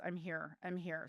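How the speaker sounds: softly imitated inner voice; retold faint voice.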